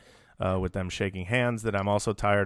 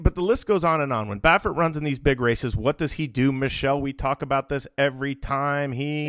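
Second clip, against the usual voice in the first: raised pitch, rhetorical and insistent; soapbox rant; 4 semitones higher than usual. Pretend. Host prompting his co-host mid-rant, higher and insistent. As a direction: put the question as if everyone knows the answer. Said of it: "can I do Soapbox Billy".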